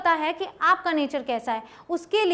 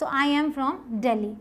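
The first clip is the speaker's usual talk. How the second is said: slow model sentence; 2 semitones lower, much slower than usual. Shown as a demonstration.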